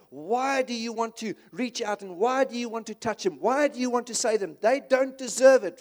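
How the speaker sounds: mild angry Jonah. Retold or imitated. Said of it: "And he gets angry with God".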